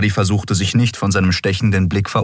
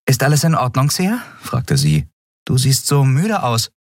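put-on higher, fast, eager young captain; Endriel voice; 9 semitones higher than usual. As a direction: push the crew along, a bit rushed. Endriel fragt Xea besorgt. (höhere, eilige Stimme der jungen Kapitänin)

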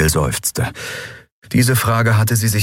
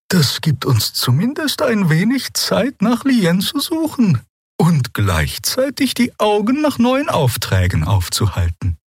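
gentle. A narrator's reading. Xia calming the crew, gentle and slow. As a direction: reassure them slowly.

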